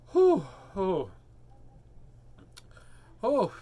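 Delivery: imitated gasps for air; acted-out breathless puffs; winded gasps. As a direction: huff as if something sits on your chest. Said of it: "I can't catch my breath".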